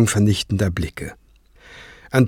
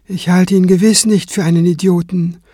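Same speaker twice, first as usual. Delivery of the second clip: calm; 7 semitones higher than usual. Acted. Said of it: "erwiderte Kranz ruhig".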